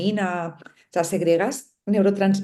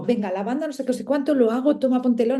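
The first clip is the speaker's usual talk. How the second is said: higher, hurried mock routine, no attention paid; rushed, hurried routine; 5 semitones higher, faster than usual. Speaker to listeners, mimicking her old rushed oil routine, hurried and higher. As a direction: toss it off like a chore you want done. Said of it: "No voy ahí como".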